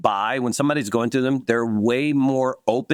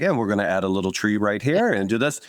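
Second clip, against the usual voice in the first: gently voiced Bob Ross, slightly lower; 3 semitones lower than usual. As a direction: paint it out like a calm TV painter. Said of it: "it's like Bob Ross".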